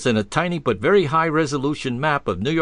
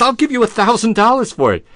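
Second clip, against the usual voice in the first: eager offer; 9 semitones higher, 6 dB louder than usual. Retold or imitated. Stranger bidding for the watch.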